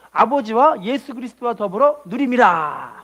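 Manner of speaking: slow, spelled-out verse for the church to echo; slow call to repeat. Shown as a demonstration. Pastor leading the congregation to repeat, slow. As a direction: say it slowly so all can follow. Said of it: "따라할게요".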